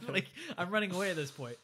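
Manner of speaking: laughing while talking. Real, not acted. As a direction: chuckle through the words. Laughing at Harry scene.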